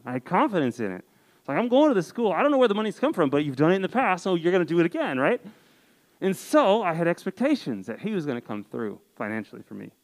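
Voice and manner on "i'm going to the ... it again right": confident prayer. Retold or imitated.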